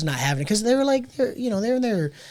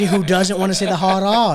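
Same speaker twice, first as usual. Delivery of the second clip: high, loud imitated Boston protest; Boston accent; 5 semitones higher, 8 dB louder than usual. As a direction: exclaim it in a Boston accent, dropping R's. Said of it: "you can't pronounce R's because of".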